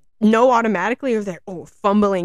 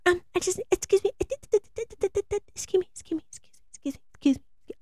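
mock excuse me; 11 semitones higher, faster than usual. Acting flustered passenger squeezing past.

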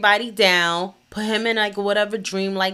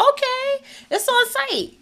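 much higher, light voice; high mock voice; 3 dB quieter than usual. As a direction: squeak it out playfully. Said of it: "So I said".

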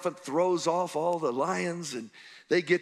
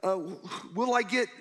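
rising, higher panicked questions building to a shout; frantic Joseph; 6 semitones higher than usual. Acted. Preacher voicing Joseph's fears to the crowd, frantic shout. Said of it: "He's so frantic".

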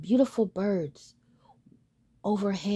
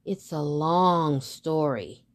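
put-on young swan; 4 semitones lower, slower than usual. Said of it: "replied the young swan".

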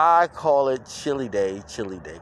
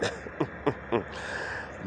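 soft breathy chuckle; quiet trailing laugh; 10 dB quieter than usual. Real, not acted. Host laughs at his drinking line.

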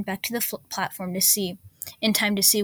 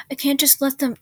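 desperate outburst; 6 semitones higher, 5 dB louder than usual. A narrator's reading. Lance pleads desperately.

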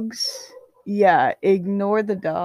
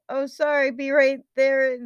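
higher voice without extra volume; apologetic call back; 6 semitones higher than usual. A narrator's reading. Patton answers the coach, a light high call back. First, unshouted take of yelled reply.

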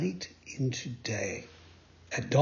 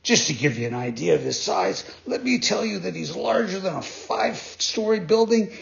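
dolphin voice. Acted. Dolphin describes the shark.

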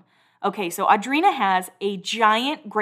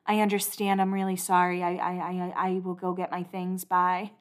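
imitating a soft, subdued resignation; meek acceptance; 7 dB quieter than usual. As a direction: give in quietly, imitating her. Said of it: "the way she says it".

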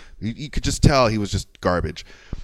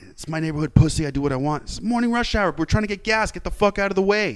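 mocking, fuming; 7 semitones higher than usual. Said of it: "my blood was boiling".

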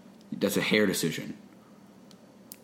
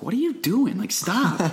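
high-pitched mock complaint; put-on high objection; imitated protest; 10 semitones higher than usual. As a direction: jump up high as if being tugged at. Acts greaser SpongeBob protesting wig pulling.

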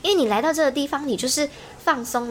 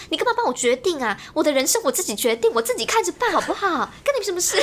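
mock indignant rant; 5 semitones higher than usual. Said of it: "没这么严重吧？".

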